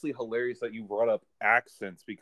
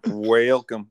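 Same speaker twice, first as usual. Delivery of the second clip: loud welcome; 8 dB louder than usual. Acted. Playful repeated show welcome.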